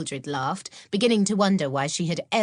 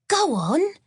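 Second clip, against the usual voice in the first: much higher, louder eager push; urging, intrigued; 12 semitones higher, 5 dB louder than usual. Acted. Maud urging Mildred to tell, high and eager. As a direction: coax the secret out. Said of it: "urged Maud, intrigued".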